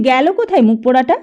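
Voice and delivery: put-on an old man barking for the boy; demanding old man. A narrator's reading. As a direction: grandfather demanding to know where the boy is. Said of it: "বলি".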